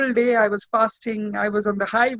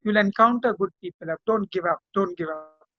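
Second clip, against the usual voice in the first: reassuring; 3 semitones lower than usual. Retold or imitated. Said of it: "tell them".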